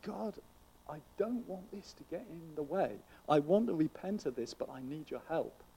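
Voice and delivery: soft, hushed acted plea to God; crying out to God. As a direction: plead quietly in prayer, without raising the voice. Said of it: "crying out to God and saying".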